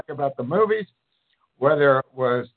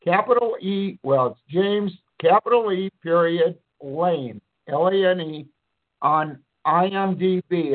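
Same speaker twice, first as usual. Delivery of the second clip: dictating. Shown as a demonstration. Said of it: "if you wanna look me up".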